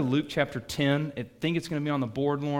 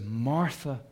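tender doubled name; 2 semitones lower, 5 dB quieter, much slower than usual. Retold or imitated. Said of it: "Jesus says".

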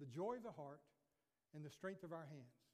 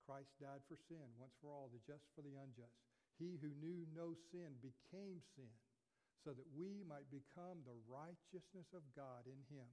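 hushed reverent preaching; 4 semitones lower, 6 dB quieter than usual. Acted. Pastor to congregation, hushed and reverent. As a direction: let it drop to a hushed wonder.

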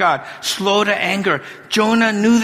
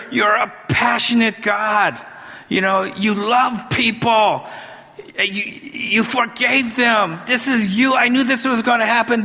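higher, heated complaint building to a shout; angry Jonah; 5 semitones higher than usual. Acted. Jonah complains to God, rising to a shout. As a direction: vent at God like a sulking prophet.

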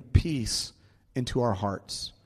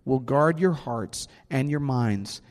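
preaching. Acted. Preaching scripture.

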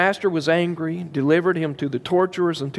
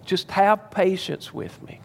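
begging; 4 semitones higher, slower than usual. Acted. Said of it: "he begs him".

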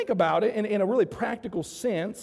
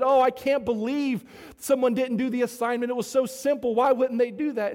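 incredulous, higher-pitched jeer; mocking; 5 semitones higher than usual. Classmates scoff at the undone assignment, mocking. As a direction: ridicule it like a scornful schoolboy. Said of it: "they started mocking, they started laughing".

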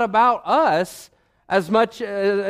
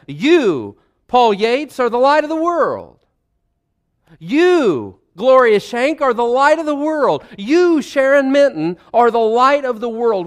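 louder, higher proclamation naming each person; preaching at full force; 4 semitones higher, 4 dB louder than usual. Acted. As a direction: ring it out over the congregation. Preacher addresses congregants by name.

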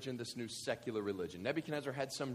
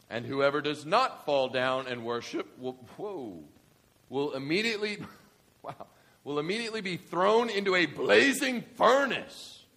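herald's stern decree; 2 semitones higher, 9 dB louder than usual. Acted. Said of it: "the herald loudly proclaimed".

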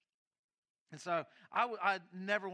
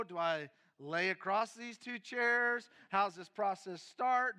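very slow, louder bewildered questions; mock confusion; 3 semitones higher, 8 dB louder, much slower than usual. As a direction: drag out each puzzled question. Confused in psychiatrist office.

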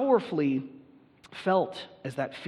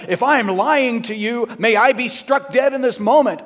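swearing an oath; 7 semitones higher, 12 dB louder than usual. Retold or imitated. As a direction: swear on your life, forcing it out. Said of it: "he began to invoke a curse upon himself and to swear".

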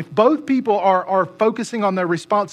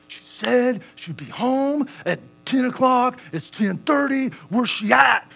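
fuming inner rant; 5 semitones higher than usual. Retold or imitated. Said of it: "just getting piping hot mad".

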